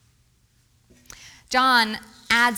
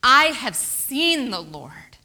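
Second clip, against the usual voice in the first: joyful announcement; 7 dB louder, slower than usual. Acted. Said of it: "went to the disciples with this news".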